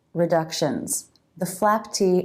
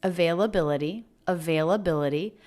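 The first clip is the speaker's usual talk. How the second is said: slower word; faster than usual. Shown as a demonstration. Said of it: "So that word was a little slower".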